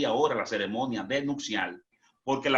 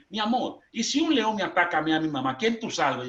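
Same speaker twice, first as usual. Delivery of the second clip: wife asking; 4 semitones higher than usual. Retold or imitated. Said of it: "que me pregunta a mí".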